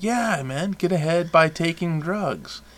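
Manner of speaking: hammed-up pep talk, stretched out; mock cheerleading. Mock role model urging kids on, sarcastically upbeat.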